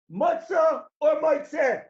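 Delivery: loud question. Acted. Quoting the question aloud.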